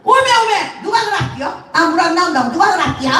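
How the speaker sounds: put-on high, startled old Jeolla woman; startled Jeolla granny. Mother-in-law asks who said so, startled Jeolla dialect. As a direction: exclaim and demand like a Jeolla granny. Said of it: "여 할머니가 받았어".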